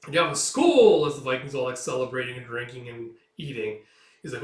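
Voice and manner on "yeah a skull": loud, high, drawn-out cheer; rowdy toast. Acted. Vikings celebrating and drinking, rowdy toast.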